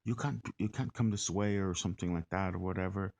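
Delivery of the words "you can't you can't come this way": put-on block the way in a rough Irish-ish accent; Irish-sounding accent. Man refusing a stranger passage, lightly mock Irish accent. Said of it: "sounded like he was Irish".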